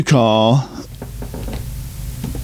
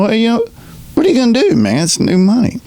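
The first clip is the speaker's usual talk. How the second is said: high, eager push of his own advice, much higher; excited urging; 10 semitones higher, faster than usual. Retold or imitated. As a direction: pitch it up, egging him on to dream big.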